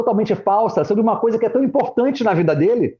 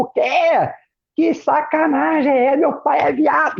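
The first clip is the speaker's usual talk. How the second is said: mock shock; 6 semitones higher, slower than usual. Imagined shocked reaction of daughter.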